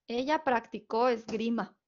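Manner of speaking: "practicó" said prac-ti-CÓ within the phrase; stress on final O. Shown as a demonstration. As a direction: example sentence with CÓ stressed in "practicó". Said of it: "el acento prosódico en la O".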